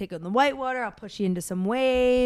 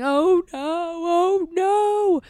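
high, wailing mock sob, climbing on each no; imitated crying; 8 semitones higher, 4 dB louder, much slower than usual. Dad imitating his son panicking under the wave, mock wail. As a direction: play the scared kid, half-hammed panic. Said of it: "he's, like, crying".

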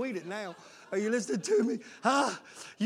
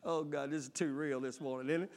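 much lower and softer; muttered aside; 7 semitones lower, 9 dB quieter than usual. Real, not acted. Preacher murmuring an aside to the church. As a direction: murmur it half to yourself.

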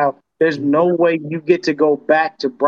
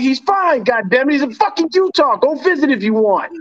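higher, annoyed brush-off that dissolves into a laugh; retold exasperation; 7 semitones higher than usual. Retelling how he answered his mom, higher, fed-up and laughing. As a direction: snap back fed up, laughing at the end. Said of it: "I'm like".

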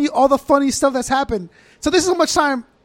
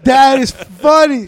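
drawn out slow and louder "That is funny"; slow deadpan cop; 7 dB louder, much slower than usual. Retold or imitated. Retelling the cop's line from Cops, slow and deadpan. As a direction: stretch it out, cop unimpressed.

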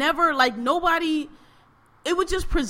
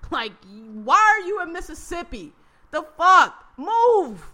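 higher, louder, fed-up rant; exasperated yelling; 4 semitones higher, 5 dB louder than usual. Retold or imitated. To the Mississippi people on the show, higher louder exasperated yelling. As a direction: yell at them to just leave, fully exasperated. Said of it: "I was like".

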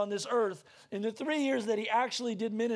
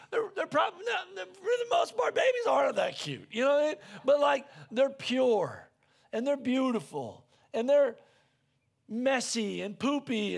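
emphatic outburst; 3 semitones higher than usual. Acted. Preacher's emphatic aside about babies.

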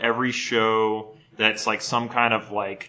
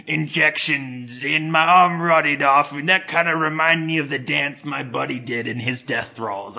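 put-on Cockney accent; 4 semitones higher, 3 dB louder than usual. Podcaster voicing a homeless Brit in Cockney. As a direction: keep the hammed-up Cockney going.

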